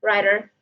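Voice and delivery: "Rider" with a quick tapped d; American-style "Rider"; American flap. Shown as a demonstration. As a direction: tap briefly, then curl into the final r of "Rider". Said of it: "The latest sound of R".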